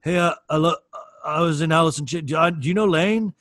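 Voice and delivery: hammed-up proud boast; mock rocker bragging loudly. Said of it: "walk up to strangers and be like".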